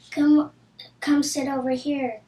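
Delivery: loud call across the cafeteria, then easing off. Acted. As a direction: call her over, first word loudest. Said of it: "called Anita".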